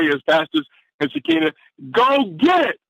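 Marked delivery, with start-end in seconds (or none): 1.9-2.8 shouted like a rallying cry. Real, not acted. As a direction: fire the room up. Host shouting the theme.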